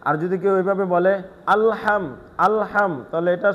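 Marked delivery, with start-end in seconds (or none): 1.5-2.9 আলহাম with the lam bounced like qalqala. Shown as a demonstration. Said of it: "কলকলা হয়ে যায়।". (ভুল: কলকলা দিয়ে আলহাম)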